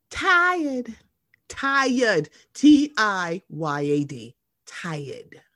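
Tired drawn out, high then falling; stressed repetition. Real, not acted. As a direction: spell out Tired slowly, pressing each. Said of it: "T I Y A D".

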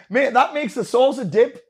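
slow, laughing argument; laughing through it. Real, not acted. Host laughs arguing soup is a dip, laughing and slow. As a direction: make the point while laughing.

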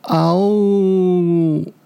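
long, drawn-out 'ao-woo' cry; storyteller's crying young dinosaur howl; wailing howl. A narrator's reading. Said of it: "小梁大声地哭着". (小恐龙拖长声哭嚎)

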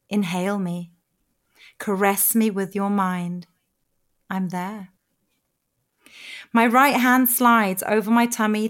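measured, sensual reading that softens toward the end; erotic story narration. Acted. Writer reads her own fantasy to the listener, intimate narration.

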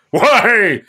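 lightly voiced pompous stage actor; Shakespearean actor. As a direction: announce yourself like a grand thespian. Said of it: "Shakespearean actor, voice teacher".

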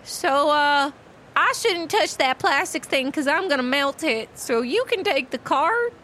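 high, slow, hesitant pony voice; awkward Tangerine. Acted. Tangerine makes small talk with Omen, awkward and halting. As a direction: feel out each phrase shyly with long pauses.

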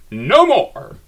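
loud, high cry of defiance; shouting. Acted. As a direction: yell it out in fury. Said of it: "the excitement got to me".

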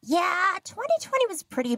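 a lightly voiced high understated old dad; low-key dad. Old Korean dad downplaying a bad year to his daughters. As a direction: shrug it off casually. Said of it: "super low key, goes".

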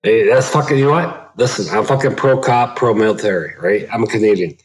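echoey caller on a phone line. Real, not acted. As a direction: sounds like calling from an empty hallway. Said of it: "I'm hearing an echo".

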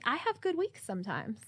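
soft unvoiced whisper. Real, not acted. Whispered aside.

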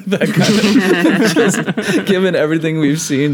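talking through real laughter; can barely get the words out for laughing; slow, high, giggling through it. Real, not acted. Laughing at a favorite line.

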